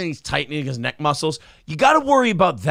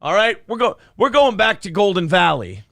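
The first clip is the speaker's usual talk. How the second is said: mock scolding mom; 4 semitones higher than usual. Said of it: "whose mom would come and go".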